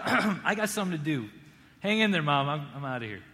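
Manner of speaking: hurried, breezy dismissal with a laugh; brushing it off. Retold or imitated. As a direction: shrug him off, you have somewhere to be. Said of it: "you're just like".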